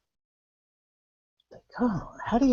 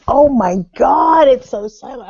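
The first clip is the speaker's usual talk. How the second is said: slow, high, loud mock panic; 6 semitones higher, 7 dB louder than usual. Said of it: "It was like".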